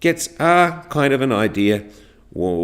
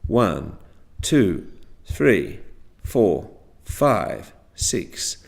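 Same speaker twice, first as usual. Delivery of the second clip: same pitch place for each number, "five" not raised; level intonation; 3 semitones lower, much slower than usual. Shown as a demonstration. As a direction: count evenly, each number from "One" to "six" with the same short fall. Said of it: "always in the same place for each number".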